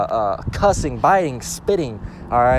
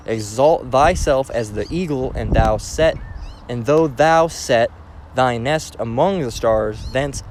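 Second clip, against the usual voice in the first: slow, forceful Bible reading; emphatic, measured verse reading; scripture reading; 4 dB louder, slower than usual. Acted. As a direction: stretch out each phrase of the verse. Reads scripture aloud.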